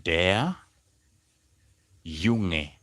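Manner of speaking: "der", long pause, then "Junge"; word by word. Shown as a demonstration. Teacher showing how to say the boy, word by word. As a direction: separate "der" and "Junge" for learners. You simply say.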